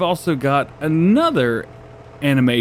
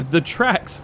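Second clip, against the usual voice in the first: hoarse, rough voice; 4 semitones higher than usual. Real, not acted. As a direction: voice giving out, hoarse. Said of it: "I'm losing my voice".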